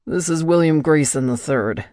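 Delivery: lightly voiced calm assurance; calm and confident. A narrator's reading. Michael calmly lies to the attendant. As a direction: state it coolly and confidently. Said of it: "his voice calm and confident".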